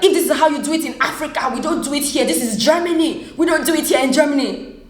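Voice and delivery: high, agitated mock neighbour rant; imitated angry scolding. Neighbour scolding her at the door, imitated indignant scolding.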